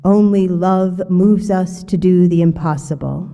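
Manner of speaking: hollow coffee-can boom with the bass turned up; bass-boosted voice. Shown as a demonstration. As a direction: boom it out like a sound engineer cranked the bass. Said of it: "I sound quite authoritative ... trapped in a coffee can".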